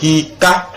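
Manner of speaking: "hika" with the I drawn out; slow model "hika" with long I; long I example. Shown as a demonstration. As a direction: stretch the first vowel of "hika". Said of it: "ça devient I, comme".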